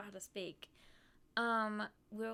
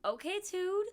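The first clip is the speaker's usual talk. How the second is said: higher, sing-song catchphrase; sassy quip; 8 semitones higher, 4 dB louder, slower than usual. Retold or imitated. Friend answering a cartoon dad, higher and sassy. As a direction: toss it off cheekily. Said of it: "and she went".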